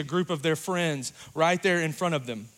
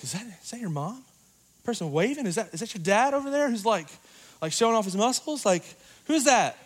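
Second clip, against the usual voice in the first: put-on higher, teasing teen voice; mocking teen friends; 5 semitones higher than usual. Teen friends teasing the kid about the waving parent. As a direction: tease like a snickering kid. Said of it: "their friends are like".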